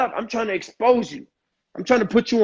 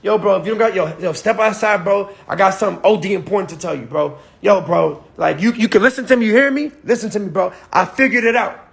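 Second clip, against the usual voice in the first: hyped urgent call. Shown as a demonstration. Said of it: "I'm gonna just say".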